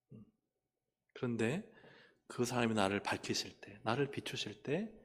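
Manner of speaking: usual speaking voice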